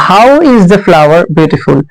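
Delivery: very slow, word by word; dictating to a class; slow dictation. Shown as a demonstration. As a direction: spell it out slowly for students. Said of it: "teacher dictating slowly".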